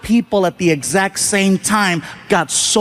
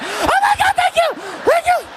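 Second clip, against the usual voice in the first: much higher, laughing frantic thank-yous; frantic relief. Retold or imitated. Comic fleeing stage gushes, giddy high thanks. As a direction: gush your thanks in a giddy panic.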